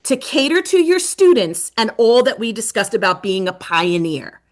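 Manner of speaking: coach's prompt. Retold or imitated. Coach challenging the Rockford teachers, emphatic. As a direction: press the district to answer. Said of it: "would say".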